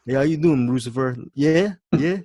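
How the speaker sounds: rough attempt at a movie character's accented voice; Sue. Host attempting Sue's voice for the podcast, light impression. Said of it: "I can barely do the voice".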